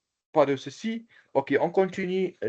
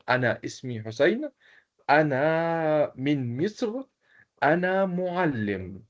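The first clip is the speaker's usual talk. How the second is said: slow model sentences; 2 semitones higher than usual. Shown as a demonstration. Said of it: "qui peut présenter comme moi".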